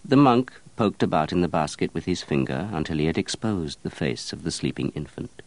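plain reading voice

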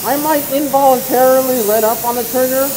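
muffled behind a respirator mask; through a respirator. Real, not acted. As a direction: talk through a paint respirator. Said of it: "I'm gonna talk to you guys through the respirator".

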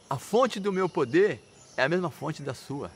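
slow, unafraid acted answer; fearless reply. Unafraid son answers his threatening father, steady and fearless. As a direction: answer deliberately, without a trace of fear. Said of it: "ele não tava com medo".

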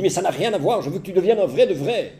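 wife voiced.

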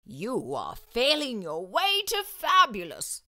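slow, encouraging headmaster; reassuring. Acted. Headmaster reassuring students on the way back. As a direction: reassure them gently. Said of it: "the headmaster reassured them".

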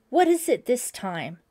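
disgusted. A narrator's reading. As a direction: woken up and annoyed at the fuss. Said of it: "Deborah's disgusted voice".

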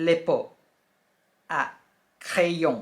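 le pot à crayon with a nasal "krayon" ending; le pot à crayon, said as a model; French pronunciation. Shown as a demonstration. Teacher naming the pencil pot, careful French. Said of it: "ก็คือ".

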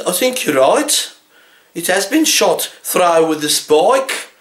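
slow, deadpan, humouring tone; mock patient agreement. Butcher humouring the daft customer, slow and deadpan. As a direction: agree slowly as if to a child.

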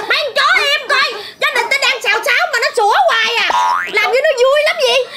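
yelling at dogs. Acted. Scolding barking dogs mid-quarrel.

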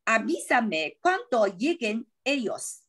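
Avísame cuando lleguen ellos said slowly, lleguen stressed on the first syllable; slow model reading. Shown as a demonstration. Teacher restarts the model sentence for the students. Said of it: "OK，重来，我也重来。".

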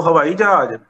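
ਹਵਾਈ ਜਹਾਜ਼ with the h turned into tone; tone in place of h. Shown as a demonstration. Teacher showing spoken Punjabi, tone replacing h in ਹਵਾਈ ਜਹਾਜ਼. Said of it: "ਸੁਰ ਨੂੰ ਅੰਕਿਤ ਕਰਨ".

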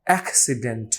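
অ্যাক্সিডেন্ট with heavy puffs on the k and final t; over-pronounced. Shown as a demonstration. Teacher mimics his old over-pronouncing of accident. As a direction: push air out hard in অ্যাক্সিডেন্ট. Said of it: "over প্রনাউন্সিং করতাম".

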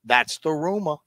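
put-on lazy Southern accent drawling out 'rumor'; Val Kilmer style Southern accent. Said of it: "Sounds like Val Kilmer".

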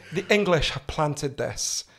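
imitating a Scottish mum, slowly; conspiratorial Scottish mum accent; strong Scottish accent. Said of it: "strong Scottish accent".

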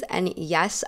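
ordinary talk

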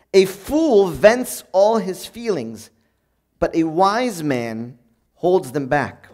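slow reading, "holds them back" drawn out and weighted; slow solemn proverb with "holds them back" stressed. Shown as a demonstration. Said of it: "you stress this holds them back part".

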